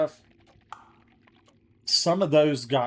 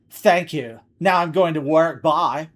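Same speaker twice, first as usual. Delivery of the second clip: cheerful customer voice; 2 semitones higher, 7 dB louder than usual. Acted. Voicing customer leaving.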